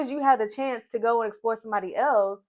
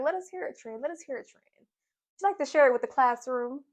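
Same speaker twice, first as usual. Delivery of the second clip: high-pitched teacherly teasing; teasing coaxing; 5 semitones higher than usual. Retold or imitated. Housemates goad Trin to share with the classroom, teasing. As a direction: needle her in a higher, mock-classroom voice.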